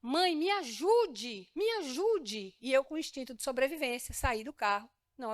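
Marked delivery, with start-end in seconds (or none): 0.0-2.5 put-on 1 child crying for help. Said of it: "eu via um filho gritar".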